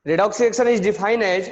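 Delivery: slow defining dictation. Shown as a demonstration. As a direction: lay the words down one by one.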